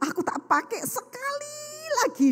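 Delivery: mock wailing plea. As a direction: beg for one last time, stretching it high. Acted wailing plea to keep clothes.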